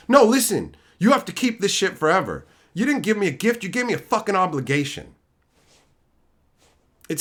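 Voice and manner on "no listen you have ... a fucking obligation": mock indignant gifter.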